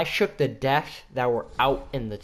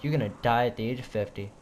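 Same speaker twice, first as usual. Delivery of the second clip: quick, cocky, deadpan taunt; smart ass voice; 3 semitones lower, 4 dB quieter, faster than usual. Retold or imitated. Teasing a classmate in class, quick smart-ass deadpan. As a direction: toss it off fast like a know-it-all. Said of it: "in the most smart ass voice".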